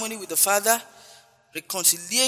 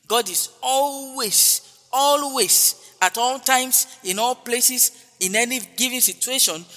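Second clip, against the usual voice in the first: emphatic preaching shout; 4 semitones higher, 5 dB louder, slower than usual. Real, not acted. Preacher rising to emphatic peak.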